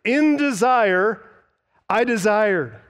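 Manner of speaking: "In desire" lifted high and slow, "I desired" falling after it; strong emphasis. Shown as a demonstration. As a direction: lean hard into "In desire" and "I desired", drawing them out. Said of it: "conveys a very strong emphasis".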